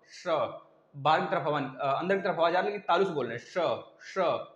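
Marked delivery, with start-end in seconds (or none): 0.0-0.2 स said from the palate, tongue at the roof of the mouth; palatal sa sound. Shown as a demonstration. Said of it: "देखिए बोलिए स". 3.5-4.5 स repeated from the palate; palatal sa sound. Shown as a demonstration. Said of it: "इस तरह बोल रहे हैं तालु से".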